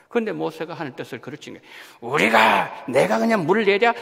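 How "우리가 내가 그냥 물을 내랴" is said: mild angry Moses. Retold or imitated. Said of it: "아주 화가 났어요".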